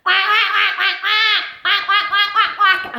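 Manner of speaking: loud, high laughing quacks; loud high duck quacks. Acted. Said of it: "even louder".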